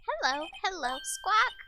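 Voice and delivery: high squawking bird voice; parrot voice. Acted. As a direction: screech it like a parrot. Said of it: "I'm not very good at doing a parrot voice".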